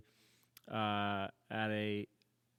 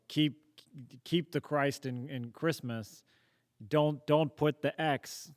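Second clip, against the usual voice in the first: louder, slower mock protest chant; mock slogan shout; 4 semitones higher, 7 dB louder, slower than usual. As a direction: belt it like a slogan. Mocking Facebook slogan posters.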